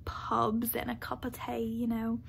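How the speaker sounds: lightly put-on British accent; terrible British accent. Vlogger imitating the audiobook's talk of pubs, mock British accent. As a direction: attempt a British accent, badly faked. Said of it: "That was a terrible British accent".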